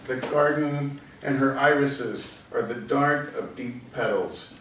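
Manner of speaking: measured verse reading; poetry reading. Acted. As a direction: recite the poem phrase by phrase, easing down to the close. Reads poem Hailstorm.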